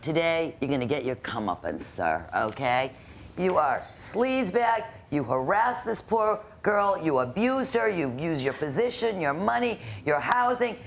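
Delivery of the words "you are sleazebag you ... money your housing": raised, higher-pitched rebuke; angry scolding. Real, not acted. Judge scolding the landlord who harassed the tenant, angry and raised. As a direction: tear into him word by word.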